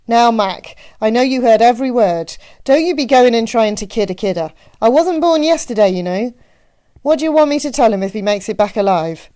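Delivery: loud, teasing Midwestern matron; Annie. A narrator's reading. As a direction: scold him playfully in a Midwestern accent. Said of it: "her Midwestern accent left no doubt".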